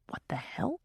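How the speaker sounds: silent, breathy mouthed words; mouthed whisper. A narrator's reading. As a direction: barely voice it, just mouth it. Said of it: "he mouths".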